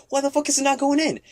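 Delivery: high-pitched frantic fumbling; reenacted panic. Prankster whose key won't go in, acted panic. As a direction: voice leaps up, desperate to get inside.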